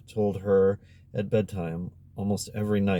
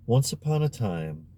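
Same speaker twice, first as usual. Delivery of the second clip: storyteller opening. A narrator's reading. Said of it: "just the way Giulietta would have begun".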